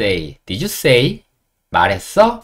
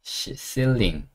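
slow careful word; 8 dB quieter, much slower than usual. Shown as a demonstration. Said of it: "천장은 ceiling".

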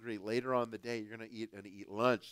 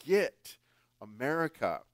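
quoting a friend; 5 semitones higher than usual. Retold or imitated. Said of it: "he's like".

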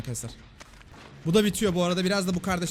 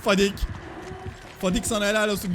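loud praise; 3 semitones higher, 3 dB louder than usual. Real, not acted. Cheering on teammate Fadik.

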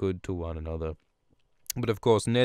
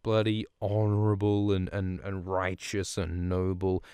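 uppity taunting. Retold or imitated. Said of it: "Cersei gets all uppity".

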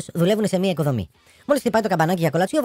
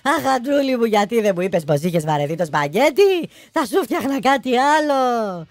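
mock wailing widow; 4 semitones higher, slower than usual. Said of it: "άρχισε να φωνάζει".

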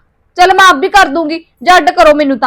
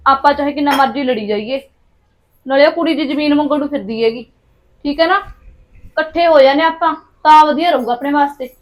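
hushed plotting; 4 semitones lower, 6 dB quieter than usual. Acted. Wives secretly make peace.

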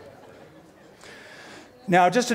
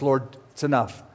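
weary; 5 semitones lower, 4 dB quieter than usual. Retold or imitated. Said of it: "he goes".

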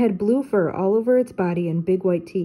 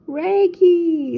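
high, loud dog-voice call; Scooby calling; 10 semitones higher, 6 dB louder than usual. Acted. Scooby calls after Shaggy as he slides away, high and loud. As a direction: yelp his buddy's name in a panic. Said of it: "Scooby called".

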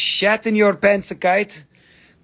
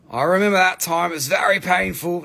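mock pained; 4 dB louder than usual. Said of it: "No, I'm just kidding".

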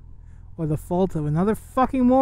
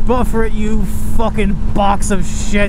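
mock-scolding car; 6 dB louder, slower than usual. Real, not acted. Cursing at the car, laughing.

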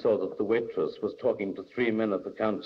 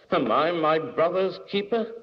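raised, indignant question; mounting temper; 7 semitones higher than usual. A narrator's reading. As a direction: throw it back with rising temper. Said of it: "as his temper mounted".

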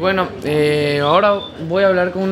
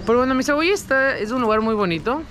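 muffled by cloth mask; speaking behind surgical mask; through a face mask; 5 dB quieter than usual. Real, not acted. Seen 1: Speaker wears blue surgical mask over mouth throughout; references unmasked.

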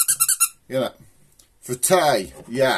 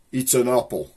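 Black Country "apple". Shown as a demonstration. Showing viewers how locals say it, in a broad Black Country accent. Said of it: "if you am from round here".

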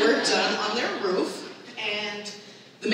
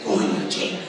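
annoyed mom. Retold or imitated. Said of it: "she was like".

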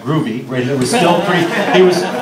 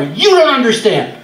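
put-on higher, whiny teenager outburst; teenage protest; 6 semitones higher than usual. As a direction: plead like a frustrated teenager. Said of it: "as every teenager will say".

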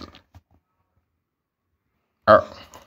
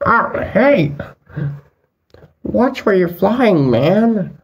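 higher annoyed call-out; startled call-out; 5 semitones higher than usual. Acted. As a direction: call out at someone flying past. Yelled at flying figure.

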